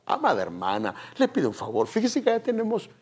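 softly spoken discreet request; hushed voice. Acted. Levite to a mother during worship, hushed. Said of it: "se lo dice con voz bajita".

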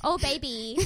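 hammed-up sweetheart pet name; romantic couple. Pretending to be a romantic couple, mock lovey-dovey. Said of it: "pretending to be a romantic couple".

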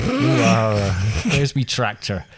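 lightly put-on rural West Country drawl; West Country farmer. Host echoes co-host as a joking West Country farmer. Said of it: "you're gonna go West Country".

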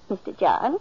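calling his name, puzzled. Acted. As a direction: call to him across the room. Martha calling him with his milk.

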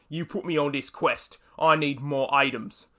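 lightly put-on British accent, slowing at the end; bad British accent. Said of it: "Sorry for my bad British accent".

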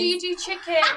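put-on high, loud drunken demand. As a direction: badger the waitress like a drunk. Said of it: "So he's really drunk".

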